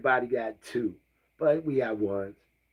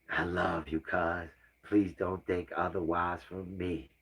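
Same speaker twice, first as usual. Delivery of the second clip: sad apology; 4 semitones lower, 5 dB quieter than usual. Real, not acted. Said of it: "feel bad now".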